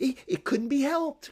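tense, forced, high, loud strained cheer. Narrator reads Daisy returning to the table, with tense gaiety. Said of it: "cried Daisy with tense gaiety".

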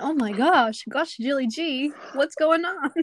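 slow southern drawl. Quoting Zuko from the show in a put-on voice: Zuko with a southern accent. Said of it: "Zuko with a southern accent".

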